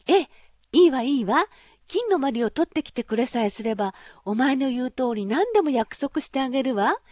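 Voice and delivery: high, loud princess voice, eagerly promising; eager pampered princess. Acted. Princess voiced in fairy tale. (高く大きな声で気前よく約束するお姫様)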